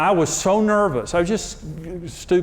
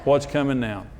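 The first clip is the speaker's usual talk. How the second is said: mock wary wife; 6 semitones lower, 5 dB quieter than usual. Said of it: "looking at me like".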